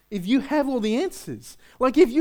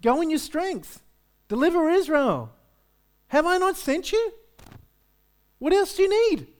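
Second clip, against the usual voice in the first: lifted, bold divine command; voice of God; 6 semitones higher than usual. Acted. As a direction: speak as God sending a warrior. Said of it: "And God's response to him is".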